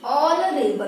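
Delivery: ऑनरेबल opening on "aw", with no h; teacher's isolated ऑनरेबल, h left silent. Shown as a demonstration. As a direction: model ऑनरेबल carefully as "AW-norable". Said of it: "silent हो गया है।".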